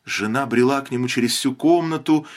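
ordinary delivery, nothing marked

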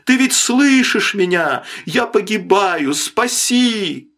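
high, imploring cries; desperate plea. A narrator's reading. Man adrift begs the silent sailor to save him, desperate plea. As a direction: beg to be heard and saved. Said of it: "взывал Мэннерс".

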